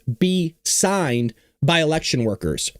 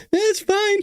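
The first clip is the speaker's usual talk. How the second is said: mock the official line; sarcastic; 4 semitones higher than usual. Host to his audience, mocking the official line: sarcastic. Mocking claims of fair election.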